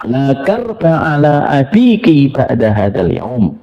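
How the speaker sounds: slow, drawn-out Arabic consolation; gentle slow Arabic words to a daughter; tender dying whisper. Retold or imitated. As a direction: comfort a weeping daughter slowly. Prophet's whisper quoted.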